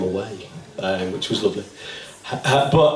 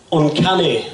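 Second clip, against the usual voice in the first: lightly voiced impersonation, pitched a little higher; a hint of a playwright impression, raised in pitch; Alan Bennett; 6 semitones higher, slower than usual. Poet quotes his own thought, light impersonation. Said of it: "in my best Alan Bennett impersonation voice".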